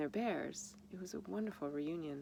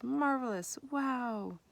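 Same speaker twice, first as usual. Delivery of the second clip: excited; 8 semitones higher, 5 dB louder, much slower than usual. Acted. Reading the excited thank-you card.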